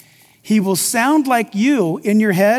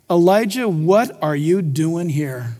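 gentle voice of God; 5 semitones lower, slower than usual. Acted. God's gentle question read.

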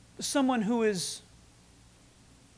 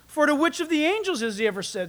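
higher, fast, pressing challenge; rhetorical challenge; 6 semitones higher, faster than usual. Acted. Author challenges readers with rhetorical question, pressing. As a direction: fire the question at them. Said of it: "It's a rhetorical question".

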